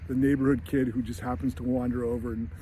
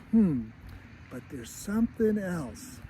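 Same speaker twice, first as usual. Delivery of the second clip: uneasy mom; 4 semitones higher, 4 dB quieter, slower than usual. Retold or imitated. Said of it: "she's still like".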